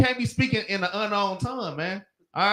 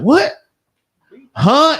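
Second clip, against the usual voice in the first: confused huh; 7 semitones higher, 9 dB louder than usual. Retold or imitated. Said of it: "I be like".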